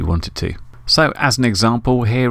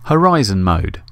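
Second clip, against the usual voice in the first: crisp, louder announcer-style callout; recorded voice prompt; 4 dB louder than usual. Shown as a demonstration. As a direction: say it clean like a radio mode prompt. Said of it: "let's record me saying horizon mode".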